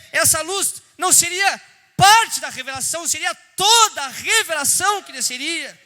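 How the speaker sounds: loud, ringing preacher's cry; preaching at full force. Acted. Preacher to the congregation, in a loud proclaiming cry. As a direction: proclaim it to the whole church.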